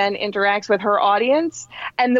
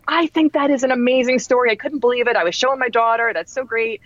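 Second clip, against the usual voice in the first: retold gushing; 5 semitones higher than usual. Retold gushing reaction of instructor.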